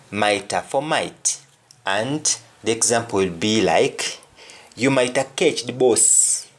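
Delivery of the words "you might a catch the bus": Jamaican Patois, "bus" said as "boss". Shown as a demonstration. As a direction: say it in Jamaican Patois, "catch" as "ketch". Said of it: "in Jamaican, when somebody says bus".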